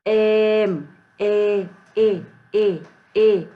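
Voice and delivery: एम said slowly, then ए repeated loud and drawn out; sound demo. Shown as a demonstration. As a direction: lean on the ए sound again and again. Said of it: "pronounce हो रहा है". (ए की ध्वनि ज़ोर से दोहराना)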